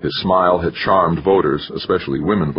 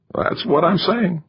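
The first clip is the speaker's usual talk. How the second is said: higher, slow needling manager; wiry manager voice; 13 semitones higher than usual. A narrator's reading. Manager spelling out the loss to the candidate, higher and slow. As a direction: lay it out to him like a lecture. Narrator voicing McChesney.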